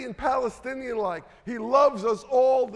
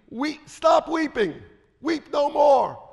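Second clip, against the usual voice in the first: higher, slow, emphatic urging; firm consoling command; 4 semitones higher, 5 dB louder, slower than usual. Acted. Elder telling weeping John to stop, slow and emphatic.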